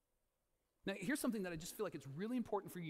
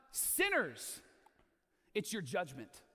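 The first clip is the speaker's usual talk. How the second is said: stern judging voice; much slower than usual. Acted.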